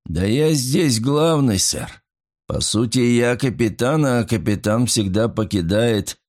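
slow, slurred indignant protest; indignant drunk. Acted. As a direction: protest like a tipsy self-important officer. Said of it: "возмутился тот".

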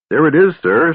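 high, loud dragon voice. A narrator's reading. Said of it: "said the dragon".

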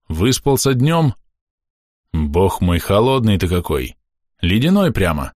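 a hint of a kindly gruff father cooing at a baby; father fussing over his icy baby, lightly voiced. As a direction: coo at the cold baby, mildly surprised.

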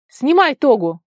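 high, loud urgent command; shouted order. A narrator's reading. Vara orders her friend in danger, high shout. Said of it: "крикнула она".

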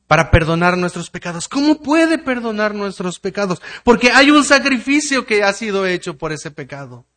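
loud, driving pulpit voice; full-force preaching. Acted. Pastor thunders at the congregation, full-force preaching. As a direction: proclaim it to the back row.

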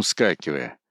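ordinary delivery

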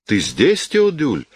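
aunt delighted to find nephew Теодюль in her room, surprised exclamation. A narrator's reading. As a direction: pitch jumps high on the name. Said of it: "воскликнула она".

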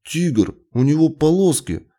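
high-pitched cross retort; angry little boy. A narrator's reading. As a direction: insist hotly, like an offended child. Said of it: "сердито ответил он".

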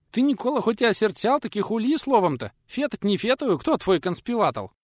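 high, loud, lisping peasant voice; a fussy old craftsman lisping his words up high; old craftsman Nikodim. Acted.

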